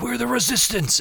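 mock heroic rallying line; epic speech. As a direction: play it like a grand movie speech, half joking. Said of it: "like, epic speech".

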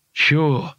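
"Sure" loosely slurred. Acted. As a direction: slur "Sure" as if drunk. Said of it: "slurred Rincewind".

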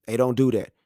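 usual speaking voice

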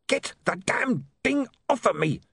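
high panicked yell; frantic high yell. Acted. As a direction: yell in pain with a dog on your arm. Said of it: "he yelled".

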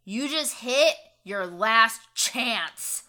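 slow, menacing threat. Acted. Snakes threatening the captain, slow menace. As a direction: lean in and threaten slowly. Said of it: "Really menacingly".

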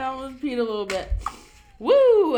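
fast, high and loud through leftover laughter; gasping it out between laughs; laughing. Real, not acted. Recovering from a laughing fit, real laughter. Still laughing after joke.

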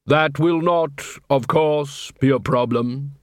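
slow, solemn Death voice; grim reaper voice. Acted. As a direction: speak as a calm grim reaper. Death speaks to dead dwarf.

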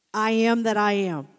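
loud, weighty proclamation of the divine name; booming declaration. Retold or imitated. Preacher to congregation, booming the divine name. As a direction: declare it like thunder from the pulpit.

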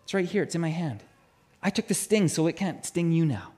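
softly voiced calm dad; gentle, unhurried reassurance; reassuring father. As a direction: quietly soothe a frightened child. Father reassures his panicked son in story.

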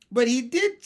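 high, loud objection; insistent protest. A narrator's reading. Michael contradicting Mary Poppins, insistent protest. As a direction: protest like an indignant child.

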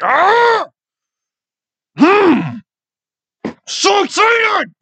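put-on very high squeal, like an overexcited kid; kiddish excitement. Shown as a demonstration. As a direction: let giddy energy burst out, drawn out. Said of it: "this weird kiddish energy I'm getting".

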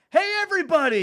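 very high, loud excited greeting; hammed-up movie foreigner. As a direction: overdo the cheery foreigner. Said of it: "he's always like".

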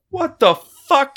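high, slow frightened shriek; scared shriek. Retold or imitated. Siblings shriek at the brother in fright. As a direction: squeal it out in terror. Terrified reaction.

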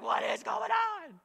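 high, slow bewildered cry; exasperated shout. Retold or imitated. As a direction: cry out, totally overwhelmed. Overwhelmed by life's chaos.

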